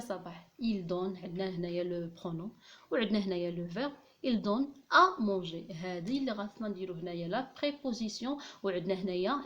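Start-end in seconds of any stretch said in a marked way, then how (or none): 4.3-5.7 slow rereading. Shown as a demonstration. Rereads part to analyse.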